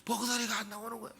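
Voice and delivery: imitating a voice lost from crying; voice giving out. Shown as a demonstration. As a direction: strain as if no voice comes out. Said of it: "목소리 이렇게 바꿨어요". (울다 목소리가 안 나오는 흉내)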